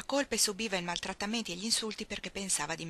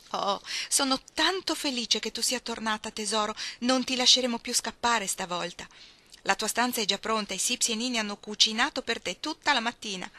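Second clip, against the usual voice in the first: louder, higher gushing welcome; overjoyed welcome; 3 semitones higher, 5 dB louder than usual. Acted. Mother welcomes Ruth home, gushing and loud. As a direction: pour out the joy.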